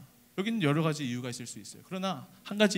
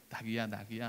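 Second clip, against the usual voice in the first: soft, low coaxing to the little donkey; soothing the donkey; 8 semitones lower, 11 dB quieter than usual. Acted. A disciple gently calming the young donkey, soft coaxing. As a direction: coax it gently, almost under the breath. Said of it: "달래주는 거예요".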